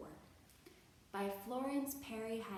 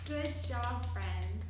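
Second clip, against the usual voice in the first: cheery praise; 7 dB louder, much slower than usual. Real, not acted. Teacher praising kids.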